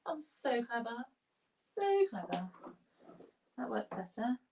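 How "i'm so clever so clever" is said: lightly sarcastic boasting; mock self-praise. Real, not acted. Declutterer admiring her own tidying, mildly sarcastic. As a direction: congratulate yourself, tongue in cheek. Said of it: "I'm being slightly sarcastic".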